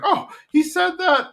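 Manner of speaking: high squeaky flattered surprise; a thrilled high-pitched "he said that?"; surprised. Retold or imitated. Peggy hearing praise for her, pleased high squeal.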